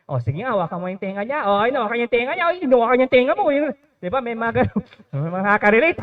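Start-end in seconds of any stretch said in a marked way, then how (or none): 0.1-3.5 quick, teasing instigator voices; egging on a fight. Retold or imitated. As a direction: rattle them off like kids stirring up a fight. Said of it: "may mga mangsusulsol". (mabilis na nanunulsol na boses)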